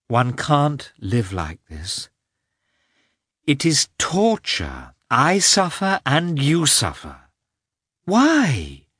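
slow, anguished plea climbing in pitch; tormented, drawn-out appeal. A narrator's reading. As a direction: draw out each word, rising to a pained "Why". Wife's anguished outburst to husband.

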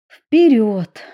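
cheerful smiling call. A narrator's reading. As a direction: say it with a smile. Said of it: "улыбнулась Эмили".

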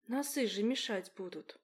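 plain reading voice

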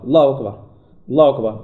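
«الله أكبر» with only a doubled L, no long vowel; lam sem alongamento. Shown as a demonstration. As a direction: cut the vowel of الله short after the doubled L. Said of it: "يقرأ اللام فقط مشددة".

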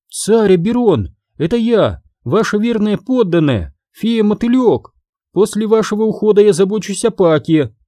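high-pitched fairy voice; a loyal subject addressing her king in a high little voice; high, earnest fairy character; devoted little moth fairy. Acted.

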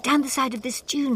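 shouted warning; yelling. Acted. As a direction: call it out loud and high. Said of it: "she yelled".

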